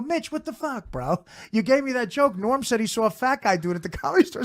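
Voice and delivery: mock outrage. Confronting Mitch, retold.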